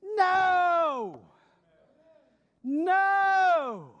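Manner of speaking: high, loud shouted no; emphatic shout. Real, not acted. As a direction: cry it out in refusal. Rejecting the skeptic's claim.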